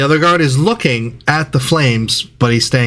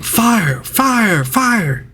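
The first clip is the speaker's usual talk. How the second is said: high-pitched alarm cry at normal volume; mock yelling; 10 semitones higher, much slower than usual. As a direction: call out a fire warning, pitched high without real force. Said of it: "You see people yelling".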